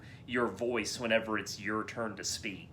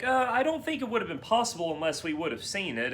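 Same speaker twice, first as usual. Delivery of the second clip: Samuel L. Jackson; 8 semitones higher, faster than usual. Retold or imitated. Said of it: "Samuel L. Jackson's just like".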